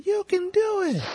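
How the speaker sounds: high far-off cheer from a window; cheering shout. Retold or imitated. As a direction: yell encouragement down to runners. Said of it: "I would open up my window and say".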